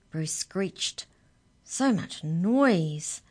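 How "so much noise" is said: complaining. Acted. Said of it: "complained the mouse".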